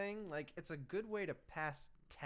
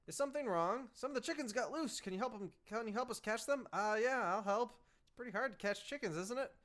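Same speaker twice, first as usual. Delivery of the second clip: a hint of higher-pitched student voices; lightly voiced flustered students; 5 semitones higher than usual. Students asking for help catching chickens, lightly voiced fluster. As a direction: lightly play polite, bothered youngsters.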